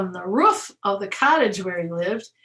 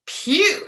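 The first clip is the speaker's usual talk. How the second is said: disgusted phew; 8 semitones higher, 4 dB louder than usual. A narrator's reading. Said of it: "squashed the hen".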